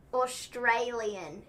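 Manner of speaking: very slow, stretched Australian-accent attempt. Shown as a demonstration. Having another go after failing, attempted Australian accent. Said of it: "sounds remotely Australian".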